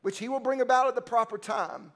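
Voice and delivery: solemn Bible reading, slowing toward the amen; scripture reading. Acted. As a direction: read the passage with solemn weight. Reads scripture before preaching.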